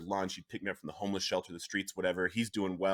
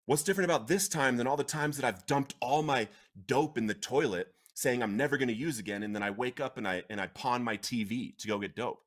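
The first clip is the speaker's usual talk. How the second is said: retold anger; 3 semitones higher than usual. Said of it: "I got angry at first".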